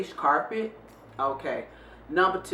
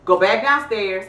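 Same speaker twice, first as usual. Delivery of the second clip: snapping at son; 6 dB louder, faster than usual. Retold or imitated. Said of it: "I snapped at first".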